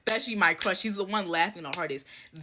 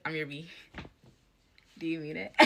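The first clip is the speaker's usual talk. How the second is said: swooning lovestruck reply; 3 semitones lower, 12 dB quieter than usual. Retold or imitated. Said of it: "And then I'm like".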